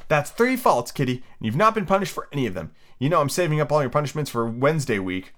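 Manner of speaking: lightly voiced prim girl; Alice scolding kitty. Girl warning her kitten about saved-up punishments, mild and prim. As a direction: count the faults like a strict little girl.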